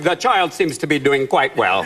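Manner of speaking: lightly done robotic speech-synth voice; flat synthesized Hawking voice; Stephen Hawking voice. Retold or imitated. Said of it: "Stephen Hawking's going".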